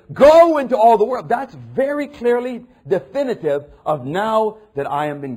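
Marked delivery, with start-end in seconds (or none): 0.1-1.3 Jesus' command voiced in full; proclaiming command. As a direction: boom out the great commission. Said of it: "Then he says".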